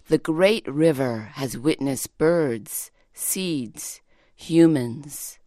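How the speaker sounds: slow, measured poem reading. Acted. Poet reading a friend's Tagalog-inspired poem slowly. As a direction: let each image settle as you read.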